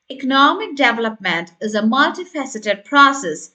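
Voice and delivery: teaching demo with "development" stressed. Shown as a demonstration. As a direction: stress "development", slight rise on "process". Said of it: "stress the word development".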